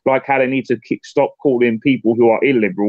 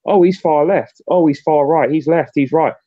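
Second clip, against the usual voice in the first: mock quote. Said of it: "people go".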